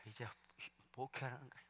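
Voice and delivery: hushed, breathy close to the story; preacher whispering the lonely start of his ministry. Real, not acted. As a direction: drop to a whisper to draw them in. Hushed close after the climax.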